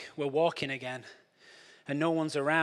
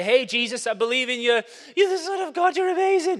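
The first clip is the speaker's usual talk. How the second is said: high, loud, gushing praise; eager believer; 7 semitones higher, 5 dB louder than usual. Pretend. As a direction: gush to Jesus like a new convert. New believer gushing to Jesus.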